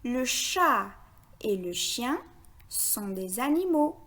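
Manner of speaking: sentence read in short connected groups; repeated in phrases. Shown as a demonstration. Teacher repeats the sentence for beginners, in short phrases. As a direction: repeat it phrase by phrase, brief pauses between. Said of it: "Je répète".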